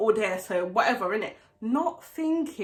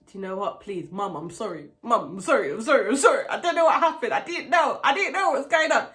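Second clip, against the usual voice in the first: pleading apology; 2 semitones lower, faster than usual. Retold or imitated. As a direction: beg mum, rising as the apologies pile up. Begging mum's forgiveness, protesting innocence.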